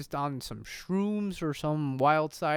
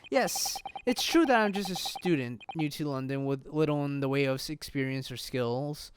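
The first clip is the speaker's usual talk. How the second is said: lightly voiced, solemn young defender; hint of a sincere rookie attorney; earnest student lawyer; 3 semitones lower than usual.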